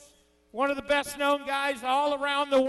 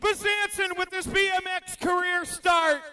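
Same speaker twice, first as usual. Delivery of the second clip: high, shouted race call; excited play-by-play; 3 semitones higher than usual. Real, not acted. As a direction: call the race at full tilt.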